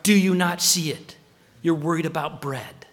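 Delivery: incredulous scolding with a punched opening; exasperated rebuke. Acted. Preacher voicing Jesus to dull disciples, exasperated. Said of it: "you know what he says next to them".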